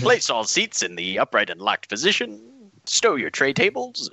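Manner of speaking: bright airline cabin announcement; flight attendant. Acted. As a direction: rattle off the safety spiel. Airline safety spiel parody.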